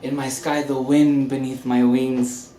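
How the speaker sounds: overly affectionate tipsy charm; drunk. Acted. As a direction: gush at her like a man who's had too many. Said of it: "We'll talk when you've sobered up".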